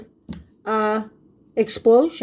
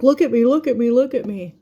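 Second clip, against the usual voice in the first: higher, louder flower begging for looks; showy flower voice; 4 semitones higher, 3 dB louder than usual. Pretend. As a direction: play a bright flower calling for attention. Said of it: "They're like".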